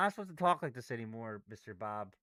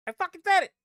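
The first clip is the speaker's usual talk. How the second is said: loud and high, furious at himself; angry shout; 13 semitones higher, 9 dB louder, faster than usual. Real, not acted. Trader furious he called it and still lost, angry shout. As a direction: yell it at the screen.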